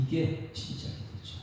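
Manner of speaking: soft slow whisper, "이게 진짜 기도죠" breathed out; whispered aside. Real, not acted. Preacher whispering to the congregation after the reading, hushed.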